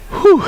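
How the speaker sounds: high puffing whew after stairs; breathless whew. Real, not acted. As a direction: blow out a winded whew. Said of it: "Let me catch my breath".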